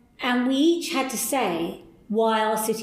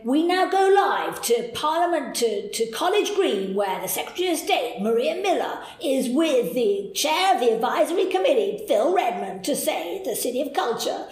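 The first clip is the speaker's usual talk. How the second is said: mock American announcer; 4 semitones higher than usual. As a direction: play a lightly American live-broadcast host. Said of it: "They didn't really say it in an American accent, but it was like that".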